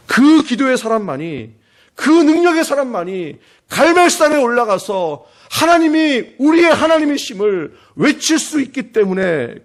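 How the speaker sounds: slow soaring sermon cry; fervent preaching. Acted. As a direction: proclaim it to the whole congregation. Preaching at full force.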